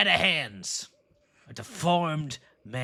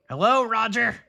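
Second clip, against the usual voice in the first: high tattoo voice; 8 semitones higher than usual. Acted. Pirate makes tattoo greet.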